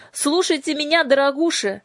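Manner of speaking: high, loud commanding shout. A narrator's reading. Headmistress shouting orders at the lamias, high and loud. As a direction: yell down at the lamias. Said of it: "закричала она ламием".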